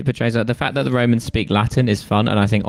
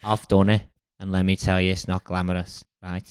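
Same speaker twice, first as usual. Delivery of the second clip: put-on light Scouse accent as a weary old king; lightly voiced Scouse Agamemnon; 4 dB quieter than usual. Agamemnon warns schoolkids in a light Scouse accent. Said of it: "I've made him Scouse".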